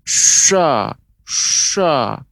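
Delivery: SHA with a thick, rounded a, almost sho; wrong thick shin. Shown as a demonstration. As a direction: make SHA heavy and dark as a mistake. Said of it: "misalnya pengucapan yang keliru". (sha keliru, dibaca tebal)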